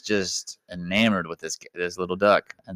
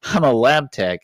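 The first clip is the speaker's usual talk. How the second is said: high, louder indignant reply; defensive retort; 7 semitones higher, 6 dB louder than usual. Retold or imitated. Phil insisting to Howard he is a lab tech, high and indignant. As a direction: bristle and correct him, pitched up.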